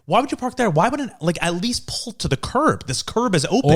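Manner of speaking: put-on half-shouted complaint to the girl in the car; retold scolding. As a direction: tell her off for blocking the road. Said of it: "I was like".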